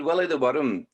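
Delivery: Willie the Worm with Scottish vowels and a rolled "Worm"; Scottish-accented title announcement. Shown as a demonstration. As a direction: say "Willie the Worm" like a Scot, "Worm" in two syllables. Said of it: "Worms all speak with a Scottish accent".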